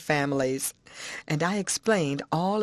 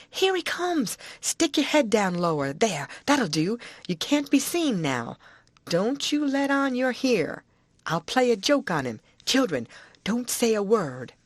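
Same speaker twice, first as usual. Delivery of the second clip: put-on higher, eager old-woman voice; Aunt Sally's voice; 5 semitones higher than usual. Aunt to the boy, eager old-woman voice. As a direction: coax the boy for all the news.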